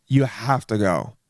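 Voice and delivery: slow, emphatic urging; hammed-up recommendation; mock insistence. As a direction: stretch it out like a raving diner. Diner urging someone to go.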